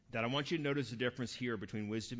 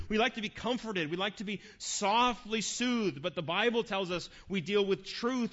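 higher, louder, driving sermon build; preaching at full force; 7 semitones higher, 7 dB louder than usual. Acted. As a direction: preach it hard, pressing the truth home.

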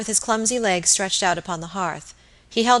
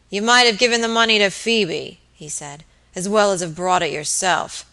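put-on surly drunk; 4 dB louder than usual. Surly drunk landlord complaining.

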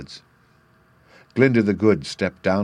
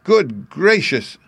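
drawn-out high surprised exclamation; slow, high good gracious of amazement; surprised cry; 8 semitones higher, 3 dB louder, much slower than usual. Acted. Dorothy finds herself back on the Kansas prairie, slow surprised cry. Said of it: "she cried".

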